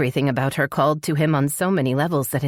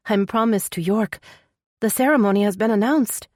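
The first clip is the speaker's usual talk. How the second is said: distressed heroine; 7 semitones higher, 3 dB louder than usual. Acted. Heroine tearfully tells of her engagement.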